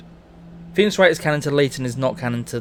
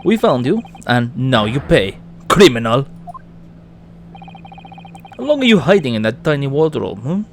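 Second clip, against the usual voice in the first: put-on Russian accent; 2 semitones lower than usual. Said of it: "if you wanna do a Russian accent".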